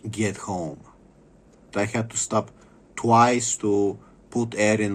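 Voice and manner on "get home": breathy whisper trailing off. Real, not acted. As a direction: drop to a bitter whisper on the last words. Trailing rant about slashed tires.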